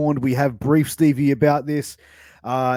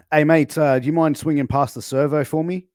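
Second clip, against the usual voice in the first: loud mate request; 3 semitones higher, 5 dB louder than usual. Acted. Acted Aussie example request.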